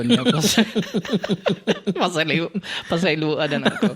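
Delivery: drooling, lips still numb; numb from the dentist. Real, not acted. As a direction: numb mouth, laughing it off. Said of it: "maglaway-laway ko".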